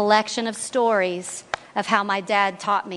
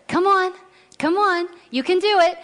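put-on high, louder cheering on a little girl; coaxing dad; 9 semitones higher, 4 dB louder than usual. Dad at the pool coaxing his daughter to jump, high and cheering. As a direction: urge her on like a dad at the pool.

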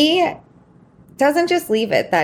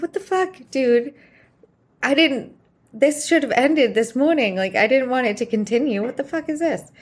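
higher-pitched, exasperated disbelief; retold incredulous protest; 5 semitones higher than usual. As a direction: act out a baffled objection, pitched up. Retold outraged reaction to public kiss.

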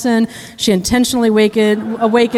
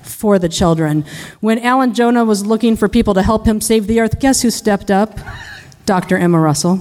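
defense lawyer impression. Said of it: "impression of a criminal defense lawyer".

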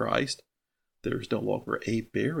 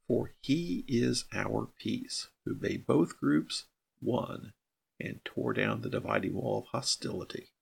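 scripture reading. Acted. Reads scripture slowly.

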